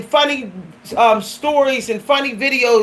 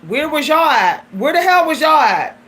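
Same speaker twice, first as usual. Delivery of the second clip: indignant demand; 2 semitones higher than usual. Retold or imitated. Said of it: "I just was like".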